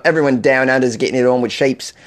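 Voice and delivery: mock Australian accent with twisted vowels. Host teasing Aussie listeners about sheep, mock Australian accent. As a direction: put on a comic Aussie accent. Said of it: "How was that for an Australian accent?".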